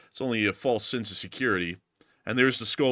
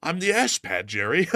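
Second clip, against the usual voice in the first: mock soldier; 5 semitones higher than usual. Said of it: "Look, Jerry".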